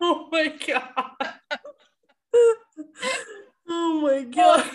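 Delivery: cracking up at the silly moment, high and breathless; laughing. Real, not acted. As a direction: lose it completely. Both cracking up.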